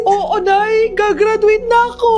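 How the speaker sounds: loud, joyful cheer; excited. Acted. Son tells mother he will graduate, cheering. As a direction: crow it out with pride.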